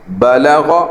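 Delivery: بلغ with three equal short vowels; even short vowels. Shown as a demonstration. Teacher models بلغ for students, even. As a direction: say بلغ evenly, no stretching. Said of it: "تینوں کے برابر حرکت ہے".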